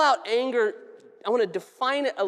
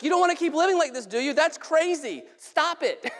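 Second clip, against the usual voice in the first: higher, fast, fed-up telling off; exasperated counselor; 5 semitones higher than usual. Retold or imitated. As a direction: rattle it off, out of patience. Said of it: "he's just frustrated with her".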